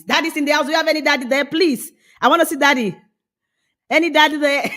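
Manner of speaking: put-on a child calling through the house for daddy. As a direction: call out for daddy like a small child.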